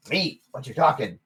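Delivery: gnome barkeep. Acted.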